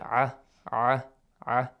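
"ah" from the middle of the throat; short separate "ah", squeezed in the throat; throaty ayn sound. Shown as a demonstration. Teacher isolating the letter, "ah" as a throaty ayn. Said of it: "But with an ah sound".

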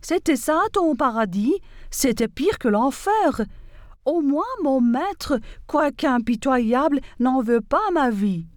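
an understated angry donkey; furious braying donkey. Acted. Wounded donkey reproaching the fox, mildly furious. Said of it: "il se mit à braire avec fureur".

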